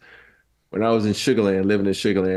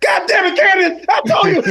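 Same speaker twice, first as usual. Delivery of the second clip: high, loud panicked yell at Candace; panicked shout; 5 dB louder than usual. Retold or imitated. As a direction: scream it out in fright and anger. Yelling at Candace in fright.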